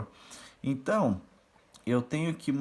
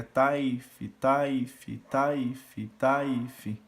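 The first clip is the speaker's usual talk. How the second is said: 1 fast tá if; much slower than usual. Shown as a demonstration. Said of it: "quando tá muito rápido".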